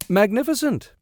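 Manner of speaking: high overdone excitement; mock enthusiasm. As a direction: fake a big thrill. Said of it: "with a good imitation of enthusiasm".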